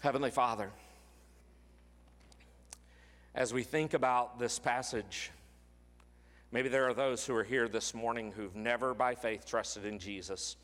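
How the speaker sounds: a tender, sincere altar-call prayer; closing prayer. Acted. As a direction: pray aloud for the congregation, gently. Pastor leads closing prayer.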